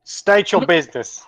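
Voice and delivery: Cockney car guard, breaking into laughter; shaky stab at Cockney; attempted Cockney. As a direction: try a rough Cockney accent, amused. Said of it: "can it be Cockney?".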